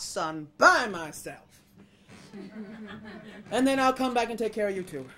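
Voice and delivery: measured, then loud pointed martyrdom; frustrated rooster. Acted. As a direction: reassure through growing exasperation. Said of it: "He's getting kinda rooster frustrated".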